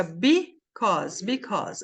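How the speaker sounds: "because" as bee-koz, two syllables; teacher's "because", two beats; silent final E. Shown as a demonstration. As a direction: model "because" with no vowel after the final S. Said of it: "Esse E é mudo".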